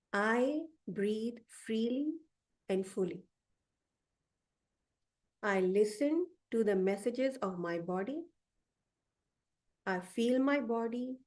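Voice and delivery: slow, deliberate affirmations with pauses; affirmation reading. Acted. Coach reading affirmations aloud for listeners, slow and deliberate. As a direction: speak each affirmation slowly, like a mantra.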